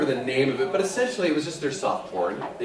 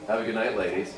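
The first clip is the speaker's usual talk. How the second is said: sounding dirty; 3 semitones lower, 4 dB quieter than usual. Retold or imitated. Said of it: "Does he have to say it like that? It sounds dirty".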